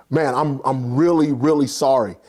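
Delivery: low-pitched, earnest apology; acted sincere apology. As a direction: imitate an apologetic manager. Manager apologizing to wronged diner.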